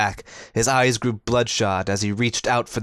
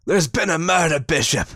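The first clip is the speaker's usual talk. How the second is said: frantic; 8 semitones higher, 5 dB louder than usual. Acted. Frantic man reports murder.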